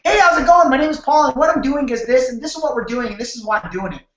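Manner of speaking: hammed-up pushy greeting, too much energy; super excited. Shown as a demonstration. Bad example of an overexcited salesman at the door. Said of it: "Don't be super excited".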